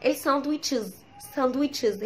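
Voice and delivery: "ساندويتشز" as sand-witch-ez, d sounded; wrong plural sandwiches. Shown as a demonstration. Teacher quoting what people say wrongly, "ساندويتشز" with the d. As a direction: say "ساندويتشز" the mistaken local way. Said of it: "بيتقال غلط".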